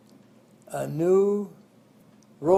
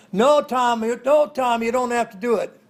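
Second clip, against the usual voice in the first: higher and louder, pleading cries; kids yelling; 7 semitones higher, 7 dB louder than usual. Retold or imitated. The kids shout up to Tom on the water tower, alarmed pleading. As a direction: call him down off the railing.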